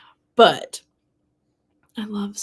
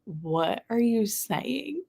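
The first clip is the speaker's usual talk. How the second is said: baffled friend; 3 semitones higher, 5 dB quieter, much slower than usual. Retold or imitated. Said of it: "that Jordan's like".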